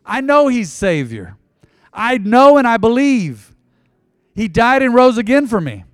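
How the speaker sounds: earnest prayer for the congregation to repeat. Acted. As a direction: lead the prayer line by line.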